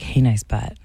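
raspy flirt. Shown as a demonstration. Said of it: "It's like".

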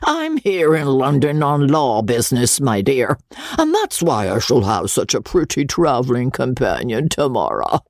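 crude old baronet, lightly voiced; a coarse old squire chatting; Sir Pitt voice.

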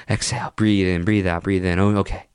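settling himself after a rant; calming down. Real, not acted. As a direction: talk yourself down from the rant. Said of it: "Okay, I'm mad".

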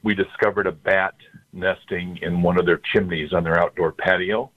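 caller heard through a speakerphone; phone-line voice from a speaker. Real, not acted. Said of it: "I've got you on speaker".

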